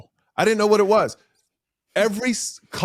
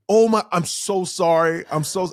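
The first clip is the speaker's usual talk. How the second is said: emphatic retold apology, louder; profuse apology; 2 semitones higher, 4 dB louder than usual. Actor friend apologizing to his host, mortified.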